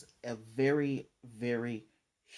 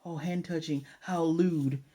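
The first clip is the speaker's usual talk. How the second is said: mock shy anime girl; 4 semitones higher than usual. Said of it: "that little Japanese shy".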